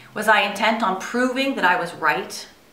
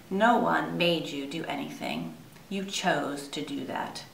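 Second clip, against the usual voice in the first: calm; 2 semitones lower, 6 dB quieter than usual. Retold or imitated. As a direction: say it gently and firmly, like a patient dad. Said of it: "my dad would always calmly say".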